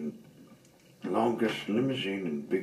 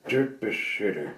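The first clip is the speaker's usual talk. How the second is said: scoffing, a bit louder; grumpy scoff; snorting dismissal; 4 dB louder than usual. Acted. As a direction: brush it off with scorn. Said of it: "snorted Mister Appleton".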